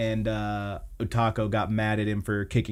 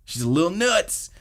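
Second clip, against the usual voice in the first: nuts said much higher with a lilting lift; pitched-up repeat; 7 semitones higher than usual. Shown as a demonstration. Host repeats the sister joke to co-host, pitched up high. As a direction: lift the whole line up playfully. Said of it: "repeated line".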